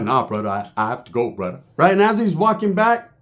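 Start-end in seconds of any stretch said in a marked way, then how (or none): 0.0-1.6 low desperate plea. Retold or imitated. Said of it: "He's like".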